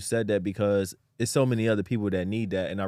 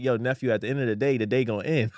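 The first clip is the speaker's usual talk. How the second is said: quick, offhand street-wise advice, lightly voiced; imitating a crackhead. Retelling a crackhead's advice, lightly imitated quickly. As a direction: toss it off like the old guy on the corner did. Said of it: "He's like".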